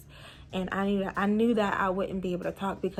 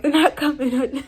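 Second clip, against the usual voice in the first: near tears; 5 semitones higher, 10 dB louder than usual. Retold or imitated. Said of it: "I was trying to tell him".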